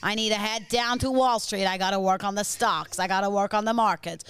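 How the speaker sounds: put-on a light, slightly Jersey American accent; half-hearted slick American trader; Wall Street businessman. Playing a Wall Street businessman, light American accent. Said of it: "you're a slick American businessman who works on Wall Street".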